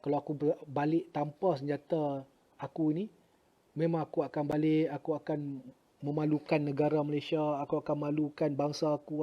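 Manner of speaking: soft, sorrowful confiding in God; retold prayer. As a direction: confess the shame quietly, as in prayer. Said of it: "Saya doalah pada Allah". (doa mengadu dengan suara perlahan)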